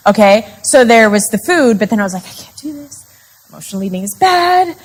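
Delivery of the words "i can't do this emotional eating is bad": high, small self-scolding voice; mock fretting. Panicked emotional eater scolding herself, mock-fretful. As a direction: start tiny and high, fret at yourself.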